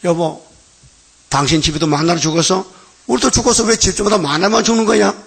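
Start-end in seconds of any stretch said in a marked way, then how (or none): 3.1-5.1 탄식하는 아내. Retold or imitated. 아내가 남편에게 하소연.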